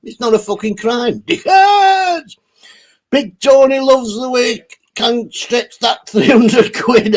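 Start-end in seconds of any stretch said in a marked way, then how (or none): 1.2-2.4 sudden high shouted insult. Real, not acted. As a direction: yell it out in disgust.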